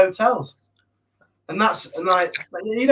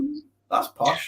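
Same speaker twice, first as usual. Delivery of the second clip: slow, higher, drawn-out ooh of mock awe; mock impressed; 8 semitones higher, 6 dB quieter, much slower than usual. Teasing a friend about his TV bed, mock-impressed. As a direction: tease him as if it's terribly fancy.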